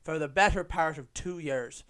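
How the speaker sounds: second, even worse stab at Irish; worse Irish accent. Shown as a demonstration. Podcaster retrying the accent he used on his mate, bad Irish accent. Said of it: "Oh, even worse".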